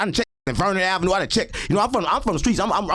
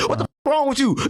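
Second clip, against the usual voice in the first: sharp demo of a raised voice, higher; 6 semitones higher than usual. Shown as a demonstration. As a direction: show the raised tone everyone talks in. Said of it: "We talk with a raised tone".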